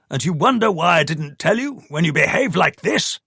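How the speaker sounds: angry rebuke. Acted. Paul angrily rebuking Tamsin.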